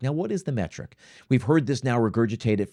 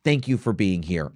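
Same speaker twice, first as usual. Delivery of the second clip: model server welcome. Shown as a demonstration. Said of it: "we say".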